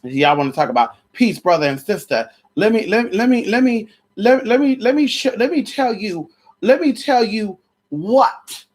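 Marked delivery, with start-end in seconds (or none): 2.5-8.6 mock preacher build-up.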